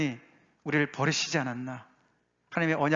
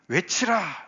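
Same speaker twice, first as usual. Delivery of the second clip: raised-pitch proclaiming cry; 5 semitones higher, much slower than usual. Acted. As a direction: call it out like a herald. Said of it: "한 소리가 외친다".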